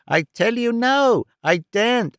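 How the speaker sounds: put-on high, wailing old man in despair; frantic old miser. A narrator's reading. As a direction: pitch it up and wail the loss. Arthur frantic.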